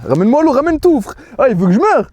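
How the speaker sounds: desperate for water; panicked plea. Real, not acted. Mouth burning, begging for water.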